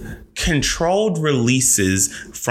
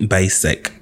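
put-on Anna Delvey accent; 4 semitones lower than usual. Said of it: "do Anna Delvey".

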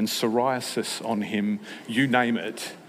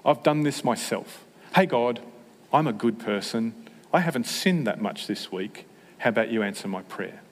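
smug prayer imitation. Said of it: "you'll hear it".

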